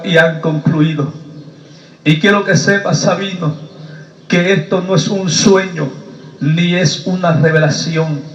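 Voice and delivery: low, grave pronouncement with long pauses; preacher voicing God in low tones; solemn divine voice. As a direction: deliver God's verdict, low and deliberate. Voices God pronouncing his end.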